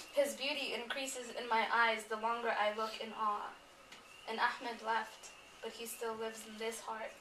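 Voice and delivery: solemn recital, each line set apart; poem reading. Acted. Reading This Prayer to the mourners, solemn and measured. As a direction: read it like a devotional poem.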